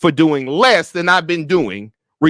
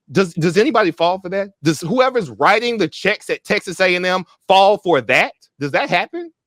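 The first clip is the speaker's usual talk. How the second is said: ordinary talk, nothing marked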